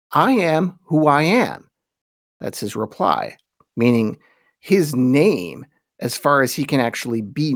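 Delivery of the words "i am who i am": slow, solemn, a little louder divine declaration; lightly voiced majestic God. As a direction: proclaim it as God would, weighty. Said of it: "He says".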